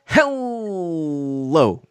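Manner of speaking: flat, drawn-out deadpan hello; matter-of-fact hello. Retold or imitated. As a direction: say it dry and unimpressed. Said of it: "So matter of factly".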